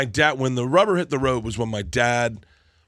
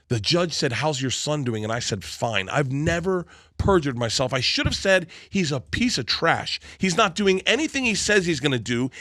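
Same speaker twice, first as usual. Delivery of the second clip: retold scolding; 4 semitones higher than usual. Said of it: "he gave me a break-off speech".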